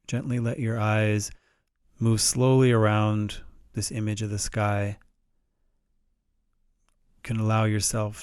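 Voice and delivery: calm, measured meditation guide with long pauses; unhurried guided-meditation delivery. Shown as a demonstration. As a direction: gently guide listeners through it, pausing between phrases.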